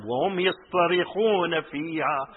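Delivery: quick recited Arabic verse; fast Quran quote; Quran recitation. Acted. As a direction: rattle off the verse.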